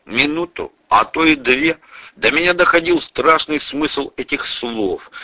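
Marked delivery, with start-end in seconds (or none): none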